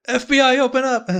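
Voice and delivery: loud high police shout. Acted. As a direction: bark it like a raid. Agents bursting in the door.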